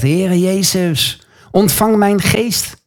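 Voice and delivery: imitated cry to the Lord, stretched out; calling out to Jesus. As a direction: draw out the dying Stephen's appeal. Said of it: "roept hij Jezus aan".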